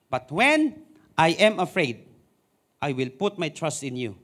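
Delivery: calm reading. Acted. Verse repeated, calmer take.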